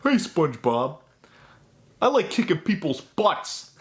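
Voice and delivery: silly bragging cartoon voice; cartoon character voice.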